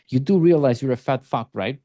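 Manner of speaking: blunt insult with a questioning rise. Shown as a demonstration. Coach showing a blunt line to a prospect, as a question. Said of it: "I'm gonna say that as a question".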